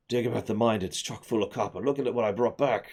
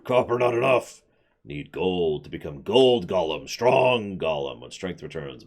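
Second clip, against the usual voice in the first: slow, heavy stone golem talking; 4 semitones lower than usual. Acted. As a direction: rumble it like a simple golem. Golem speaks in broken words.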